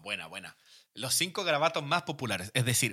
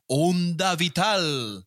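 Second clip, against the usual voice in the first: put-on Spanish accent; 3 semitones higher, much slower than usual. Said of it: "Con un acento súper español".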